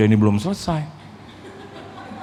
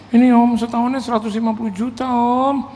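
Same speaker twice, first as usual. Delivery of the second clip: high mock-crying voice; imitated tearful whine; 9 semitones higher than usual. Pastor tells visitor the yearly rent, mock tearful whine. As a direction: plead in a high, weepy sing-out. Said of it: "kenapa dia harus nangis gitu loh".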